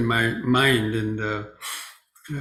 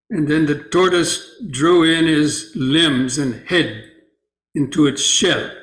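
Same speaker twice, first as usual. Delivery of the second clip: slightly raised, measured storytelling voice; story read aloud; 4 semitones higher, 4 dB louder than usual. Acted. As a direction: read a teaching tale out clearly to the group. Reads the sutta story aloud.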